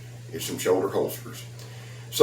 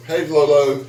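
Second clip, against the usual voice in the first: bright call to the dog, louder; hey to the dog, a bit higher and louder; 5 semitones higher, 6 dB louder than usual. Real, not acted. Vlogger greeting his dog Lolo, calling out warmly.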